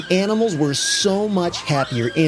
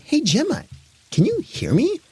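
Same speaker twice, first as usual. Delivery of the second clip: lightly voiced girl; 9 semitones higher than usual. Mia calls her dog.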